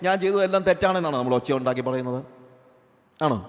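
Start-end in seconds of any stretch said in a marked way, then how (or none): 0.1-1.2 mock loud confession. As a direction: cry out a hammed-up confession of sin. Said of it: "എപ്പോഴെങ്കിലും ഒരാൾ ഒച്ചത്തിൽ പറഞ്ഞ്".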